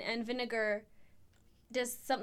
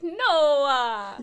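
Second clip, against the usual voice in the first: louder laughing mock shout; imitated mom yell; 10 dB louder than usual. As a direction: play mom refusing loudly. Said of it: "She's like".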